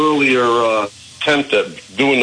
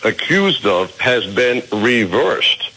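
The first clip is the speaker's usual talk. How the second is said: talking while chewing a walnut; mouth full. Real, not acted. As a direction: chew and talk at once. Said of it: "so I'm gonna try to talk and chew".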